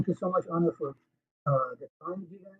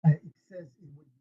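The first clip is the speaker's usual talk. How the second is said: bad connection, words fading away. Real, not acted. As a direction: voice dropping out. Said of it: "we're not able to hear you clearly".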